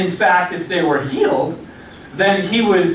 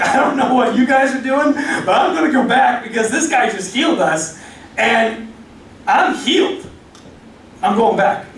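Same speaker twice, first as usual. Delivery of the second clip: giddy, laughing through the words; laughing Samaritan; 4 semitones higher than usual. Retold or imitated. Samaritan to the nine, laughing and giddy. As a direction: laugh it out, can't contain the joy.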